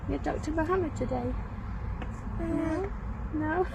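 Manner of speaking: high, soft, questioning coo; gentle coaxing. Real, not acted. Assistant talking to a shy companion on camera, gentle coaxing.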